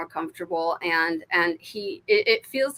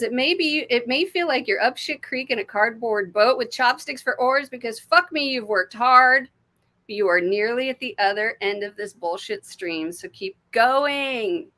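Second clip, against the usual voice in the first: reading the card aloud; 4 semitones higher than usual. Retold or imitated. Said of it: "It says".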